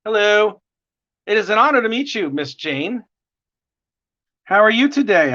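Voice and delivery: normal talking voice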